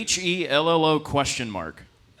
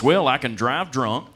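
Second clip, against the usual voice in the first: proud redneck voice; 4 dB louder than usual. Retold or imitated. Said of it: "He goes".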